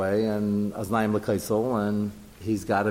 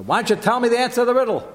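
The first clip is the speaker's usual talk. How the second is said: voiced question; 10 semitones higher, 4 dB louder, faster than usual. Teacher voices Plishtim asking riddle.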